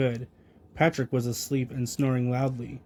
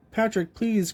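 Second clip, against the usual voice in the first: cried out; 6 semitones higher than usual. A narrator's reading. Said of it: "cried SpongeBob".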